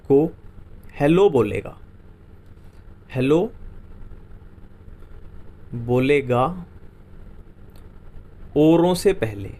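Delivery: slow, word by word with long pauses; slow, spaced-out dictation. Shown as a demonstration. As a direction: dictate it so students can write it down. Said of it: "खूबसूरत की मैंने spelling बताई थी".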